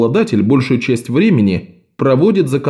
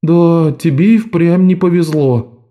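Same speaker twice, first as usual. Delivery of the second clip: disappointed; 5 semitones higher, slower than usual. A narrator's reading. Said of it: "разочарованно добавил".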